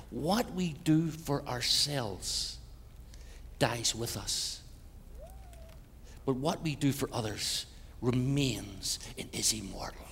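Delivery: very slow, dropping into a hushed whisper; solemn reading. Shown as a demonstration. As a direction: let each word hang, then breathe the last line. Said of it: "Listen to this one here".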